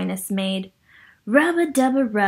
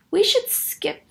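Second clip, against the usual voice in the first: whispering Ernie; 10 semitones higher than usual. Acted. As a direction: breathe it out, beaten and secret. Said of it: "Ernie said".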